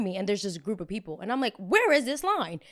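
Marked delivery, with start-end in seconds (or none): 1.6-2.6 incredulous. Retold or imitated. Incredulous at invisible line.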